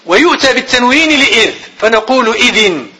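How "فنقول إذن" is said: slow, spelled out; dictating pace; slow dictation. Shown as a demonstration. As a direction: dictate slowly. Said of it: "teacher dictating".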